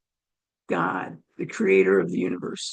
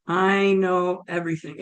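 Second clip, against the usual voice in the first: lightly imitated God, measured; a hint of a calm, all-knowing God; God's voice; 3 semitones lower than usual. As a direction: state it evenly, as God might. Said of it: "And it was like".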